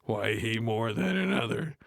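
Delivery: a hint of a comedian's voice; Cedric the Entertainer. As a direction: lightly play the comedian. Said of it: "said Cedric the Entertainer".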